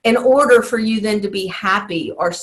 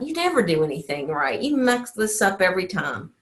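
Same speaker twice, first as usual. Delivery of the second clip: softer, faster, lower critic voice; quiet inner critic; 3 semitones lower, 5 dB quieter than usual. Retold or imitated. The inner critic nagging you, softer and quick. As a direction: murmur the put-down quickly under your breath. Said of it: "that little voice may say something like that".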